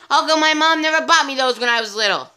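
put-on childish wonder. The speaker's childish wonder, odd timbre.

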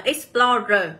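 "explorer" stressed on PLOR; light "ex", weight on the middle of "explorer"; stress on second syllable. Shown as a demonstration. Teacher reading option A, "explorer" stressed on its second syllable. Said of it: "trọng âm sẽ luôn nhận vào âm đằng sau".

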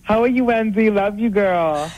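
sassy, affectionate queenie greeting. Real, not acted. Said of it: "you sound so queenie".

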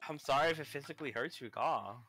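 put-on lightly done Valley Girl voice. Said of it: "don't talk in that fucking Valley Girl voice".

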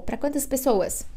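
ordinary talk, nothing marked

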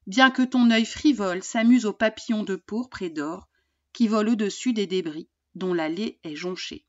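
measured reading of a melancholy poem; poem recitation. Acted. Teacher reads Verlaine's poem to her pupils, measured and gentle. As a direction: read Verlaine gently, savouring the lines.

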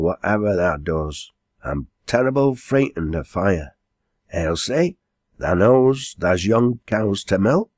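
lightly voiced dialect landlady giving orders; a hint of a brisk country mistress; bustling landlady. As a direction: hand out the chores, names lifted as calls. Landlady gives orders to servants.

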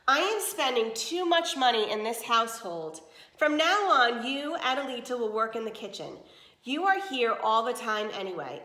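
a hint of a cold mistress laying down the law; stern stepmother. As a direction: stepmother announcing cuts to the servants. Stepmother dismisses the servant.

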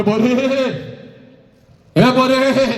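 high, drawn-out wailing call; mother's wail. Acted. Mother calls her departing daughter, high acted wail. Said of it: "पहिला हंबरडा तुझ्यासाठी तुझी आई फोडते".

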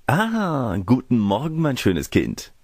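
high, drawn-out "Ah", then falling; called greeting. A narrator's reading. Cavalier greets the girl in the wood, calling out. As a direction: greet her with a gallant call. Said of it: "rief er dem Mädchen entgegen".

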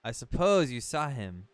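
lightly hammed-up storybook guardian; solemn talking boat. Talking boat warns Link about Ganon, mildly solemn. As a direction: read it as a grave warning, lightly acted. Reads the boat's lines aloud.

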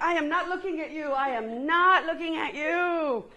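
emphatic NOT, laughing and slowing on the repeat; playfully insisting, half laughing; laughing mock protest. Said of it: "you're like".

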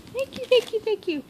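high, squealed thank-yous; excited thanks. Real, not acted. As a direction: gush your thanks up high. Thanking friend for gift, excited.

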